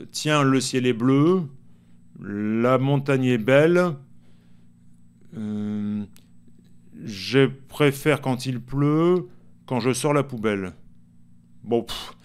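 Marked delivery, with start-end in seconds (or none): 0.1-10.7 slow verse recitation, each line held to the rhyme; improvised verse. Shown as a demonstration. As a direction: recite lines while making them up, slowly. Improvise des vers rimés en exemple. (vers improvisés, récités lentement)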